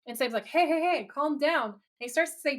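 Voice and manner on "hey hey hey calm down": higher-pitched mock intervention; urgent calming. Sam to panicking Dean, acted urgent calming. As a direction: cut in to settle someone panicking.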